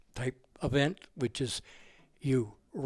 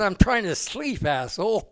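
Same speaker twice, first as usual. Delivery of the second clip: slow, louder, exasperated; mock angry retort; 5 semitones higher, 4 dB louder than usual. Stu tells the late-night caller off, slow and louder. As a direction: spit out the last word at him. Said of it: "I said".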